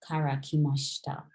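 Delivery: kara kimashita said quickly, sh nearly silent; run through. Shown as a demonstration. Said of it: "You kind of just run through it".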